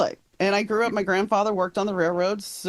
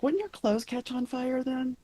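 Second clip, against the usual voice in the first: high, slow, softer mock question; retold teasing question; 8 semitones higher, 5 dB quieter than usual. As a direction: quote a friend's question, pitched up and drawn out.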